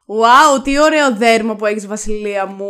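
loud, over-the-top admiration; mock gushing. Friend teases co-host about her face mask, mock gushing. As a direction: gush teasingly, opening on a big wow.

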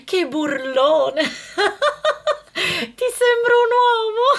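woman mocking the man who called her a tenor, laughing; laughing mockery. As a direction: laugh him off, scornfully.

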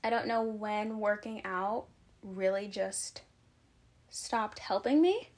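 catching breath while talking. Real, not acted. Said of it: "I'm genuinely out of breath".

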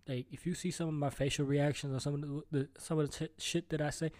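tripping over words, restarting; stumbling stutter, restarting words. Real, not acted. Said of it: "I don't know why I'm stuttering today".

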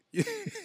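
high squeal of a laugh; squeaky laugh. Real, not acted. Reacting to episode title.

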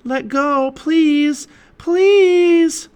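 high, loud plea, building; pleading shout. A narrator's reading. Annie begging the octopus to let go, shouting. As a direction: shout it high, stretching the last word. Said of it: "Annie shouted at the octopus".

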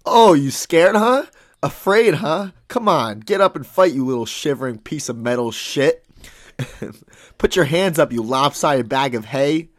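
loud mocking bully lion; taunting lion. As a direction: jeer at them like a lion.

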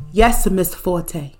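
slow, measured servant's reply; subservient driver. Pretend. Imagined driver answering his boss, subservient. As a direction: answer slowly and dutifully, playing the driver. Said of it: "Just like that".

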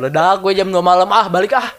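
amused, half-laughing retelling. Retold or imitated. Retelling late night laughing. (sambil tertawa)

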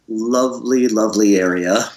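mock praise, spoken deliberately; sarcastic. Real, not acted. Musician describing an industrial slaughterhouse area, sarcastic. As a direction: praise the place while meaning the opposite. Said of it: "I'm being very sarcastic".

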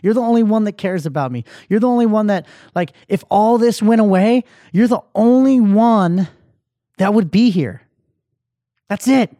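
building from upset to high, loud insistence; tearful pleading, retold. Podcaster re-enacting his tearful plea to his cousin, building in distress. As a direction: plead harder with each line, re-enacting distress. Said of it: "And I'm crying, tears are streaming".

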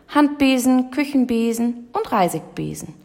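high, singsong sales list; lightly voiced obliging salesman; eager shopkeeper. A narrator's reading. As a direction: reel off the wares helpfully. Shopkeeper lists his wares eagerly.

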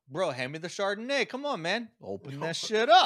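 party guy demanding wine; frat bro. Pretend. Mocking partying college kids.

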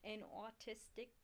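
slow, botched Australian accent. Shown as a demonstration. Reading the overview for a friend, bad Australian accent. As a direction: attempt Australian slowly, "artistic" slipping into "autistic". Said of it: "that was, that was bad".

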